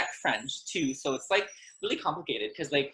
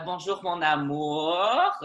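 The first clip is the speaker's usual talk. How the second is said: tender greeting. Shown as a demonstration. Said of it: "I would probably say".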